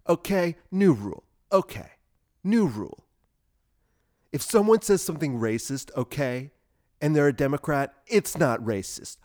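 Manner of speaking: announcing a new rule, mock TV host; lightly voiced Bill Maher decree; Bill Maher impression. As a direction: proclaim it like a smug late-night host. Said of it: "like that Bill Maher segment".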